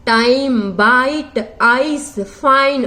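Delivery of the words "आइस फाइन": आइस, फाइन stretched slowly, आ sliding into ई; slow diphthong demo. Shown as a demonstration. Teacher modelling the आ-ई glide for students, slow. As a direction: draw out आइस and फाइन for the class. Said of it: "आप बोलोगे ना तब भी आपको समझ में आ जाएगा".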